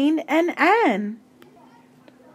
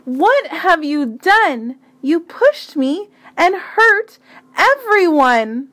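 put-on louder, angry boy shouting; angry yell; 4 semitones higher, 4 dB louder than usual. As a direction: blast it at her in anger. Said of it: "before he yelled".

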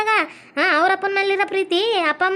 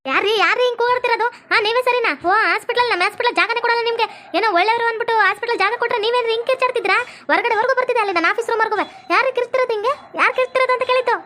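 indignant demand for order, slightly raised; stern scolding; 3 semitones higher than usual. Acted. Hospital madam scolding relatives for shouting, stern and indignant. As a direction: tell off noisy visitors with authority.

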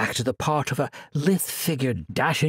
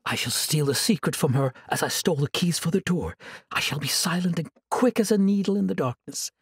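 sweet, higher and innocent; angel voice; 3 semitones higher than usual. Acted. Sorceress faking an angel's voice to lure her captive, sweetly. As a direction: coax him like a gentle angel. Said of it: "voice of the angel Illyria".

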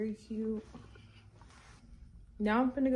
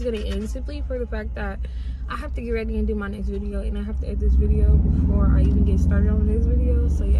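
talking while chewing; eating chicken between words; mouth full of food; 10 dB louder than usual. Real, not acted. Seen 0: Drumstick held at lips throughout; mouth appears chewing between phrases.

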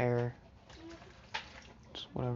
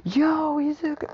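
cheery call; 13 semitones higher, 4 dB louder than usual. Acted. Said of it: "Kirishima ran in and said".

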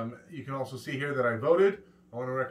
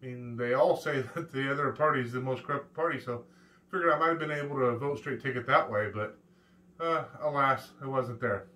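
ordinary delivery

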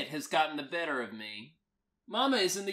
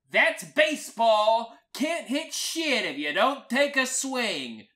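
loud, high holler; big raised-pitch yell; yelling back; 5 semitones higher, 6 dB louder than usual. Acted. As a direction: shout it back across the rooms. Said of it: "I yell back".

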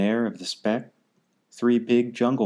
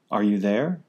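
raised call rising on there. Acted. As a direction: call into the clover. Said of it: "and called".

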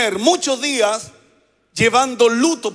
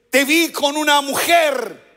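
higher-pitched accusing confrontation; accuse, voice raised in pitch; mock accusation; 4 semitones higher than usual. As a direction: confront a partner caught out. Acted accusation from a partner.

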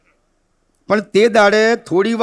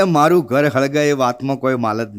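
much lower, softer deadpan recital; lowered pompous verse voice; mock solemn poet; 7 semitones lower, 3 dB quieter than usual. Gondo reciting verse while his house burns, low and soft. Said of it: "તો કે".

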